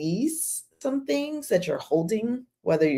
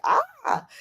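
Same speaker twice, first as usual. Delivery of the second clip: mock frustrated cry. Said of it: "because I'm angry".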